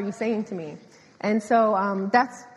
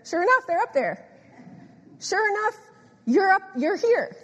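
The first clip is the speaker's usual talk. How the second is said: emphatic; 8 semitones higher than usual. Real, not acted. Preacher insisting listeners are lights.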